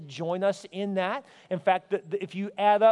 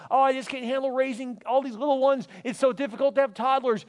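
higher, mock-overwhelmed parent; overwhelmed complaint; 5 semitones higher than usual. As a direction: complain like a swamped parent, pitched up. Voices an overwhelmed parent's excuse.

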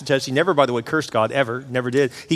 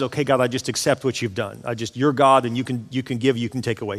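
resigned acceptance; 3 semitones lower, 3 dB quieter than usual. Retold or imitated. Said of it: "He just admits it".

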